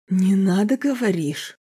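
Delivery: enraged, mocking roar. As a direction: roar it like a hurt animal. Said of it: "раненым зверем взревел Роберт".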